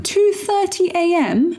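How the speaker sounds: incredulous, high and slow; stunned disbelief question; surprised. Real, not acted. Disbelief at wake-up time.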